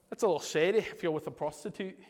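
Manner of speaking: playful put-on Scottish accent; joking Scottish accent. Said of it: "I'll get my Scottish accent for that".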